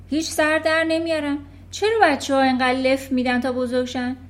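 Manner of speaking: headmistress rant. Acted. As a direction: sneer about children like a tyrant. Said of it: "مدیر داشت میگفت". (غر زدن تحقیرآمیز مدیر)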